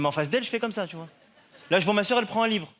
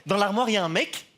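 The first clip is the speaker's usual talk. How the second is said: higher, pious instruction; a hint of a preachy sister; lightly voiced nun; 6 semitones higher than usual. Nun sending the pupil to confession, lightly higher. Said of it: "elle me dit".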